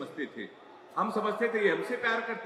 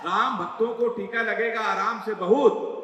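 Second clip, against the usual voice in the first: declaimed verse; 4 dB louder than usual. Acted. Poet declaiming the closing verse at the audience, loud. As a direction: hammer the lines home to the crowd. Poem climax to crowd.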